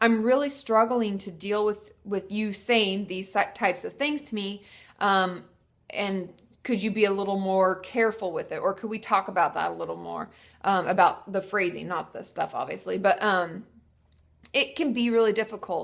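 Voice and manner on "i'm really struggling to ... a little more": plain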